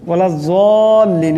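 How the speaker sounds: ওয়ালাজ-যাল্লিন with the long vowel stretched, a bit slow; ওয়ালাজ-যাল্লিন drawn out; lengthened vowel. Shown as a demonstration. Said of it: "লম্বা করিয়া পড়তে হবে".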